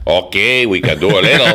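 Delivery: low mock Hispanic accent. Host attempting Cuban on request, mock Hispanic accent. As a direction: try a comic Cuban-style accent. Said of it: "I guess a Hispanic accent".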